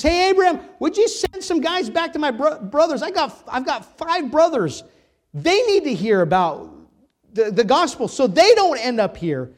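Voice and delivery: high, loud urgent appeal; crying out. Retold or imitated. Preacher as man in hell pleading for his brothers, crying out. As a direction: shout up to someone far off, pleading. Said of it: "the man cries out and says".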